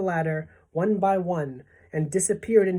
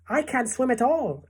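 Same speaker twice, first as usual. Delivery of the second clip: high-pitched worried wail; frightened cry; 8 semitones higher than usual. A narrator's reading. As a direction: cry out helplessly. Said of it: "cried the ladybug".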